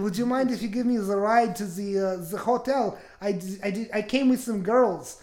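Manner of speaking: put-on a light German accent, "the" softened to "ze". Friend demands a German accent for the stranger, light German accent. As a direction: ask for the ride in a mild German accent. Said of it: "No, no, I want the German accent".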